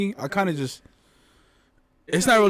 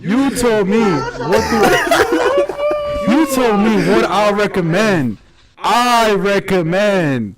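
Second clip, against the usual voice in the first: laughing; 3 semitones higher, much slower than usual. Real, not acted. Laughing fit over own words.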